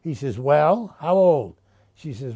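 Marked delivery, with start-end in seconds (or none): 0.4-1.6 put-on louder, pushy how old; the old man presses her, louder; impatient demand. Old man Sam demands Selma's guess, impatient and louder.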